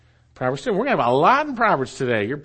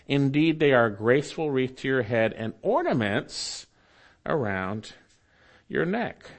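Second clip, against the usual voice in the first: measured, lower-pitched scripture reading; 5 semitones lower than usual. Real, not acted. Preacher reading Proverbs to the congregation, measured scripture reading. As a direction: read the verses out with deliberate pauses.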